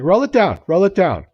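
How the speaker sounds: high, loud shouted demand; angry demand. Retold or imitated. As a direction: bang on the window and yell it. Drunk guy tapping on window.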